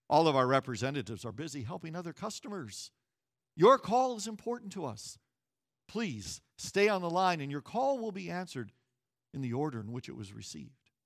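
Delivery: fast automated hold message; phone menu voice. Retold or imitated. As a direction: rattle it off like a phone recording. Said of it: "all of a sudden the music pauses".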